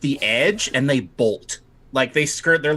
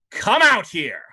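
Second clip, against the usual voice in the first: commanding shout; 7 semitones higher than usual. Acted. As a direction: shout them out of hiding. Night Lord bellowing down hallway.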